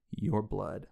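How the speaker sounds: a hint of a slow, breathy killer; lightly voiced, slow gruff menace. Killer answering the heroine's call, a light breathy growl. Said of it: "in a breathy, gruff tone".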